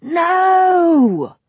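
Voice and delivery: loud, high protest. Acted. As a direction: shout the refusal. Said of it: "he protested".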